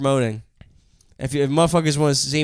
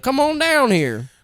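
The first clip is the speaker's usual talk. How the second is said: put-on Texan accent; 11 semitones higher, slower than usual. Texas club voiced.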